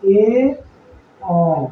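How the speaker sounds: ए then अ, split apart; ए अ said apart as two sounds; vowel demo. Shown as a demonstration. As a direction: answer ए अ. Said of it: "क्या पढ़ते हैं".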